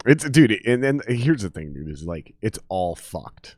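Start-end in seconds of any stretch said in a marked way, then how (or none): 1.4-3.6 slow, softer, lower resigned mutter. Real, not acted. Telling his friend about the news, slow and resigned. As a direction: let it sink, slow and low. Weary summing up.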